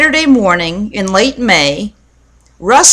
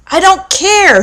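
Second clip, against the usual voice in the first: shouted; 10 semitones higher than usual. A narrator's reading. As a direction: snap back at your sister. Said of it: "shouted Russell".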